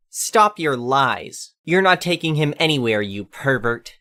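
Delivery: lightly voiced suspicious old lady; accusing old lady.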